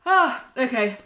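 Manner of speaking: talking through a yawn; stretched yawn on the words. Real, not acted. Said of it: "I'm just gonna have this yawn".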